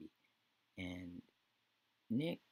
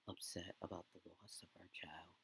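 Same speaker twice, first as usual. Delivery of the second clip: soft hush; 7 dB quieter than usual. Retold or imitated. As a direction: drop to a near whisper. Husband comforting grieving wife.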